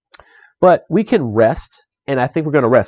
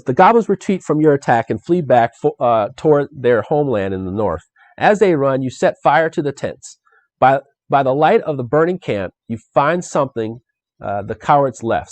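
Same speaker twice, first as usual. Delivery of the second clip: narrating the card text aloud, a touch storybook; lightly dramatic game-card narration; card reading. Acted. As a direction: read the adventure card like a storyteller.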